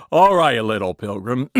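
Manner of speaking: lightly voiced cowboy star; John Wayne. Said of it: "John Wayne".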